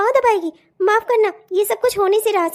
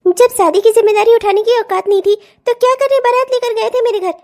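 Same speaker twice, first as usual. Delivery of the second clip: sharp, louder accusing tone; angry; 4 dB louder than usual. Acted. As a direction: throw the taunt at him. Wife quarrels with husband. (पति पर गुस्से से ताना)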